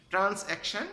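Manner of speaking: "ট্রান্স্যাকশন" high, as trans + action; spelling pronunciation. Shown as a demonstration. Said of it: "তাহলে বানানটা, স্পেলিংটা সহজ হয়ে যাবে".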